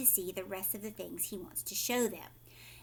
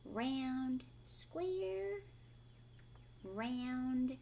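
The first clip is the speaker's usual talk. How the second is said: playful see-saw; 3 semitones higher, 8 dB quieter, much slower than usual. Shown as a demonstration. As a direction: bounce between the two words. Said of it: "kinda confuse your brain".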